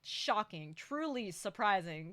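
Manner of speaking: slow, dry mock surprise; deadpan, drag out the fake shock; sarcastic. Real, not acted. Mocking an obvious plot twist.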